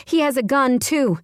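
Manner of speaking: high, urgent, hurried; rushed warning. A narrator's reading. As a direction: blurt it out in alarm. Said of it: "I rush out".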